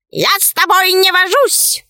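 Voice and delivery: high-pitched huffy bird reply; offended talking bird. A narrator's reading. Left head snubs the dog too, high huffy bird. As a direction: echo the snub as a high bird. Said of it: "откликнулась левая".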